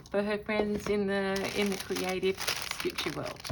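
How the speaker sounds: talking while crunching food; crunching chips. Real, not acted. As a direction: speak through a crunchy mouthful. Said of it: "Sorry about the crunch talk".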